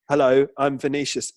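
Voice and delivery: a mildly butch, manly Hello, I'm Vinicius; lightly butch introduction; butch masculine. Shown as a demonstration. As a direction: try to sound butch. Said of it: "stereotypically butch masculine way".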